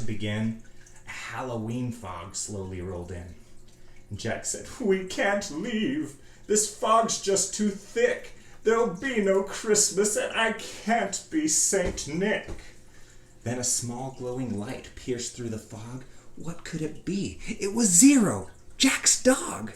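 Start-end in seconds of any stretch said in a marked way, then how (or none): 4.8-12.5 high, slow wail of disappointment; drawn-out, plaintive complaint; dismayed lament. A narrator's reading. Jack laments the fog. 16.4-19.7 high, loud burst of delight; joyful storyteller's exclamation; excited reveal. A narrator's reading. Narrator reveals the glowing light.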